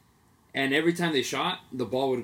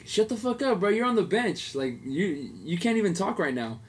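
retold telling off; 6 semitones higher than usual.

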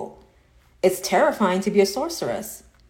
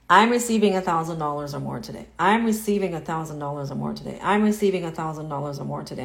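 demo affirmation; 3 semitones lower than usual. Shown as a demonstration. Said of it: "you keep repeating that".

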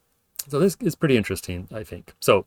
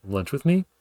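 "Lunch with me?" with pitch going up on "me"; short yes-no question rising on "me"; rising question tune; 4 semitones higher than usual. Shown as a demonstration. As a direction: lift the end of "me" like asking. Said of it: "this ascending bit at the end".

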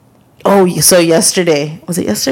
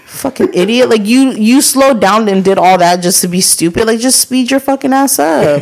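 retold irritated rant; 5 semitones higher than usual. Venting at the retold driver.

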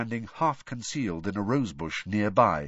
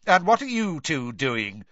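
suspicious snarl; 6 semitones higher, 5 dB louder than usual. Acted. Snape catching boys on path.

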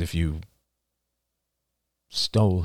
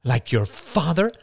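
sneering; 9 semitones higher than usual. Acted. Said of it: "she sneered".

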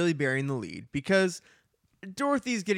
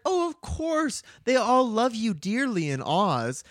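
mock sweet reassurance; 6 semitones higher, slower than usual. Dorothy voiced, gushing reassurance.

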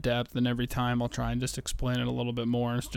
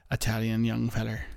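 a slip into a light Irish accent. Real, not acted. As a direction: say it with a hint of Irish brogue. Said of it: "I don't know why I sounded Irish there".

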